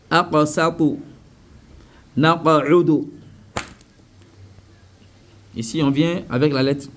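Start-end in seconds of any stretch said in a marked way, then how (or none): 0.1-3.1 "Aqasatu" and "Naqa'udu" with echoed q; qalqala. Shown as a demonstration. Teacher recites further examples, qalqala. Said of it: "appliquer la règle de qalqala".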